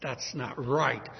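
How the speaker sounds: rising anger. Acted. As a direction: hold the anger in. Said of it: "an anger arose within him".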